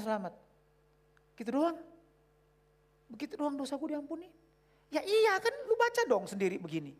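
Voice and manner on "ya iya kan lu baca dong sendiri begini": insistent. Retold or imitated. Acted insistence.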